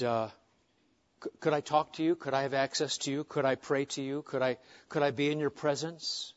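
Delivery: a hushed, hurting plea to God; soft pleading prayer. Acted. A believer praying softly to God, hurting and pleading. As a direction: pray it quietly, as if grieving.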